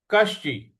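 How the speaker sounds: कश्चि with the श pressed hard; stress on श. Shown as a demonstration. Teacher drilling the verse, pressing श in कश्चि. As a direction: lean on the श after क in कश्चि. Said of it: "क के बाद जो श है उस पर हमको आघात देना है".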